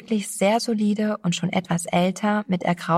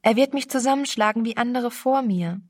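a higher, startled gasp of recognition; frightened stammer; 5 semitones higher than usual. Acted. Frightened girl spotting the stranger, stammering higher. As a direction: blurt it out in a small fright. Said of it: "stammelte sie".

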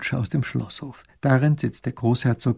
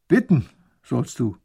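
growling; 5 dB louder than usual. Acted. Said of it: "Der Bärtige knurrt".

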